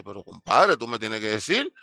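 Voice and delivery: pleading boss. Retold or imitated. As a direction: beg him to tell you.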